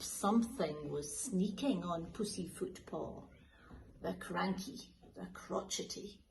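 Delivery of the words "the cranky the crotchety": slow, sinister whisper; menacing whisper. A narrator's reading. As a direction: drag out the name darkly. Villain cat introduced.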